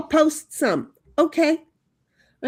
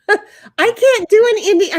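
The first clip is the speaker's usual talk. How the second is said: laughing, loud and high; 8 semitones higher, 7 dB louder than usual. Real, not acted. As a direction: laugh it out, embarrassed at yourself. Laughing at own failed accent.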